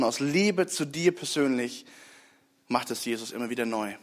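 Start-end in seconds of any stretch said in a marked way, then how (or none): 0.0-1.9 slower, softer on Liebe, voice falling; heartfelt personal appeal, slowing down; tender. Shown as a demonstration. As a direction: lean in gently on aus Liebe zu dir persönlich. Repeated phrase, second softer.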